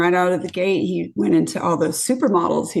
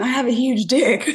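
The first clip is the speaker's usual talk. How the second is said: raised pitch, mild retold yell; mock yell; 5 semitones higher than usual. Retelling her drunk date's public boast, mock yell. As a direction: imitate a drunk man yelling, without full volume. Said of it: "he keeps yelling".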